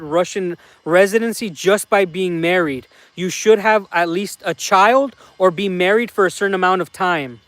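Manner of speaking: a hint of a Russian accent, questions and complaints; mildly put-on Russian accent, mostly his own voice; light Russian accent imitating a friend. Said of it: "Russian accent's a little bit harder".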